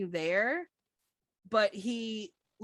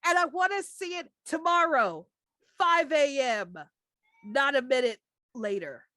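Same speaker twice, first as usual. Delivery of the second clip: stern boss; 5 semitones higher, 5 dB louder than usual. Acted. Boss gives deadline.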